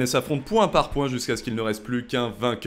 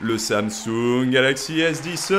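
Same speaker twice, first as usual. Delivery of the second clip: ring announcer; slower than usual. Acted. Boxing-style contender introduction.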